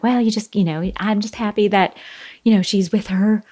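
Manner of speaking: lightly voiced religious friend comforting at the grave; Daryl Hannah impression. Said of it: "That's my Daryl Hannah".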